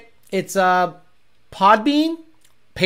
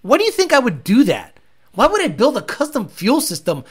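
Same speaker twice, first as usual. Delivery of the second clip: incredulous; 5 semitones higher than usual. Real, not acted. Mocking viewer's fuel suggestion.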